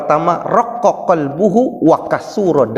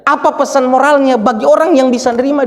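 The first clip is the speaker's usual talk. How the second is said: higher, emphatic storytelling from the pulpit; preaching; 8 semitones higher, 4 dB louder than usual. Acted. Preacher retelling how everyone listening wept, emphatic preaching. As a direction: drive the story home to the congregation.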